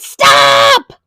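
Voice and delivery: put-on high, loud child shout; child shouting at the man; loud yell. A narrator's reading. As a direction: yell at him to stop. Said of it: "Taya yelled as loud as she could".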